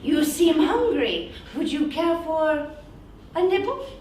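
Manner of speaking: high, sweet creepy lure; creepy shadow voice. Acted. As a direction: coax the child closer. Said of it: "a strange voice from the shadows".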